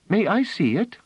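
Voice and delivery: put-on little girl pleading; eager child. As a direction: beg like a small excited girl.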